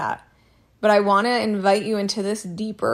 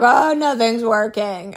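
slow, louder hopeless moan; mock victim whine; 6 dB louder, slower than usual. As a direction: ham up the helpless complaint. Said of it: "I don't show up and I'm like".

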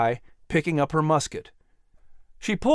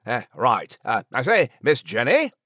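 courtly French interviewer; French-accented host. Acted. Nigel interviews author Jenny, French accent.

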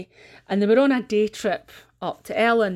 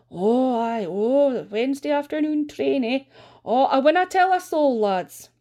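lightly high, sly gossip; nosy gossip voice; 5 semitones higher, 3 dB louder than usual. Retold or imitated. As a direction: promise with a wink. Missus Mackenzie leaving.

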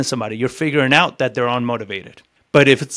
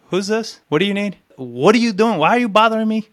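annoyed homeowner; 5 semitones higher than usual. Retold or imitated. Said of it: "That's my next question to you".

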